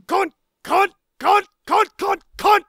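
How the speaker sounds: short, separate exclamations; abrupt bursts. Acted. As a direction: punch each word out alone. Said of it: "we need one more cunt".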